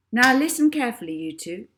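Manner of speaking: loud, brisk order; bossy little hypnotist; firm instruction to the entranced adults; commanding girl. A narrator's reading. Molly commanding in trance.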